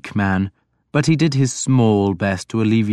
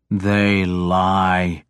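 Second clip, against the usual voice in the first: angry; 3 semitones lower than usual. A narrator's reading. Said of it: "I said angrily".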